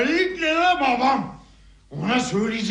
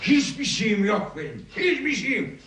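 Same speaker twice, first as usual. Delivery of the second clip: normal talking voice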